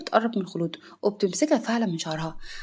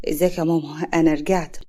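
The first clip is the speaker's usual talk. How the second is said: smiling; 5 semitones lower than usual. A narrator's reading. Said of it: "حاتم بابتسامة".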